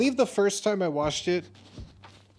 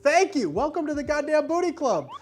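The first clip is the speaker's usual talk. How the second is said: excited welcome; 9 semitones higher, 5 dB louder than usual. Real, not acted. High welcoming greeting.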